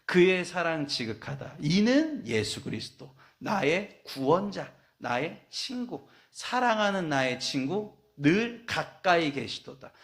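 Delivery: slow, tender, drawn-out hymn reading; slow tender recitation. Shown as a demonstration. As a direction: linger over each phrase like a prayer. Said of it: "참 표현을 어떻게 이렇게 했을까요?".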